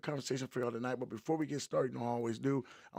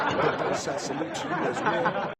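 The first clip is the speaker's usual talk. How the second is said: said through loud laughter, higher; laughing; 5 semitones higher, 9 dB louder than usual. Real, not acted. Host still laughing loudly while giving a shout-out. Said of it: "That sounds weird".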